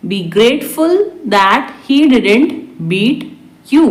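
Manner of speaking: spaced out for learners. Shown as a demonstration. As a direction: pause before the last word. Teacher repeats translation word by word. (धीरे-धीरे, रुककर)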